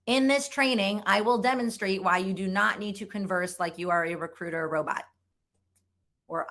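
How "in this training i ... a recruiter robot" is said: formal, uncontracted, wooden read; lightly stiff corporate recruiter voice; stiff robotic recruiter. Shown as a demonstration. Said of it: "what a robotic recruiter might sound like".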